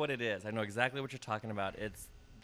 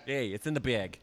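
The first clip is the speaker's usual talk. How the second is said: New York guy impression. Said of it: "impersonation of him".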